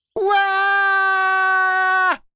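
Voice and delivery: very high, shrill, frightened, drawn-out scream. Reading a story aloud as Zoe pulls the shed door open: screaming. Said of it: "screamed Zoe".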